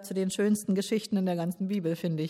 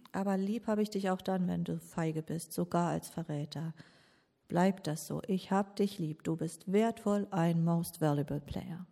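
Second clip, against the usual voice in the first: tender, quiet; 2 semitones lower, 5 dB quieter than usual. Acted. Tender assurance to the traitor.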